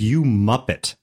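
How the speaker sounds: lightly put-on British accent insult; mild mock-British jab. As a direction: toss out an insult with a hint of British. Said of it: "only works in a British accent".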